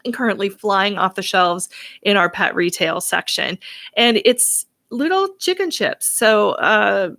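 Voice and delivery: upbeat radio show host. Acted. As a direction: welcome listeners like a radio host. Hosts radio show and ad read.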